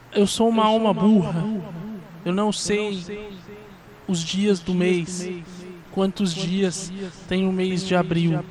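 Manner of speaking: slow, lightly spooky spirit; a hint of a confused ghost; voice from beyond. Shown as a demonstration. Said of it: "eu posso fazer uma voz do além".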